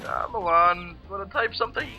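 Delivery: voicing the keyboard in a British accent; high, teasing British accent. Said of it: "What is up with you in British accents".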